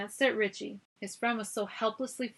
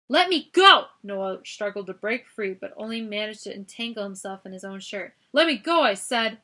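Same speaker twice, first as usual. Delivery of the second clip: struggling shout; 9 dB louder than usual. A narrator's reading. Noah struggling against the guard, shouting. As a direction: fight to break free, yelling.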